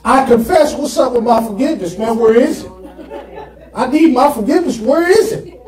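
fast, demanding complaint; mock a believer demanding forgiveness now; impatient believer. Preacher mocking an impatient believer chasing forgiveness. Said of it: "You said".

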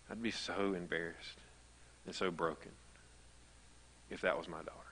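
quiet grief, trailing into a whisper; hushed, broken. Retold or imitated. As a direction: let it fall to a hushed whisper. Friend's broken words retold.

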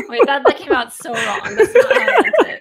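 embarrassed laugh, loud and fast. Real, not acted. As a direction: laugh it off, flustered. Embarrassed after an awkward compliment.

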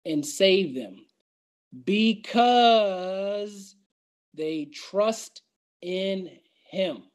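slow, deliberate psalm reading; measured reading, stretching key words; solemn scripture reading. Real, not acted. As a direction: read the psalm out with weight. Preacher reads scripture aloud.

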